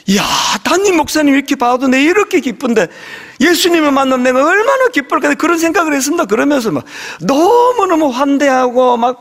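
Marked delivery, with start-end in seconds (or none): 0.1-5.4 a bit higher, gushing delight; mock excited exclaiming. Imitating a woman greeting the pastor with mild mock excitement. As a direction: exclaim it like a thrilled church member. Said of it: "소리 지르면서".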